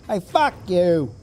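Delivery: loud, drawn-out hammed-up Brooklyn heckle; Brooklyn accent. Gamer mimicking angry dudes with funny accents, hammed-up Brooklyn accent. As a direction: yell it like an angry Brooklynite, stretched out. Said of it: "That's my Brooklyn accent".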